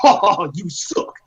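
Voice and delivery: slow, drawn-out taunt; Brock Lesnar. Retold or imitated. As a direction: stretch out a mocking jab to camera. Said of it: "turns to the camera and shit says".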